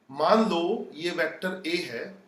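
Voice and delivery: slow and soft, मान drawn out with a rise at the end. Shown as a demonstration. Teacher repeating it for the class, slow and soft. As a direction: say it again gently so students catch it. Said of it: "अपनी style से बताता हूं".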